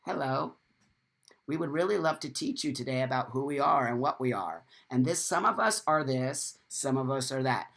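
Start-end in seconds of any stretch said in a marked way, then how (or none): 0.0-4.6 soft, friendly invitation; polite soft hello; gentle welcoming tone. Pretend. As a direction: greet them kindly. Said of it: "when you come in with an attitude like".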